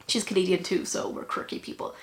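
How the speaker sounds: breathy whispered aside. Real, not acted. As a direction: tuck it away in a whisper. Quiet aside.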